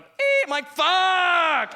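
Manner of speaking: high, loud swearing outburst; frustrated shout. Retold or imitated. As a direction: blow up as the call gets cut.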